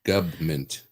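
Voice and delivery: "Government" said as "guv-ment", no r; "Government" clipped to "guvment"; Reagan's "government". Shown as a demonstration. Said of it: "You always said government".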